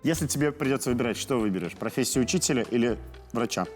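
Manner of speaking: ordinary talk, nothing marked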